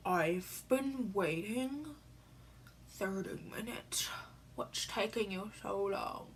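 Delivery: slow, hushed mock of a rude brother. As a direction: mimic his rude impatience under your breath. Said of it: "he says it really rudely".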